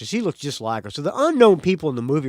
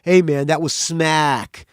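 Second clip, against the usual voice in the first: imitating Nikki; 3 dB louder, slower than usual. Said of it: "of quote, of Nikki's words".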